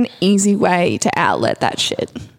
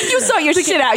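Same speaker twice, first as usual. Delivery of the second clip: high sassy teasing; 8 semitones higher than usual. Pretend. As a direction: tease her sassily, laughing. Sassy riff on hot mouth.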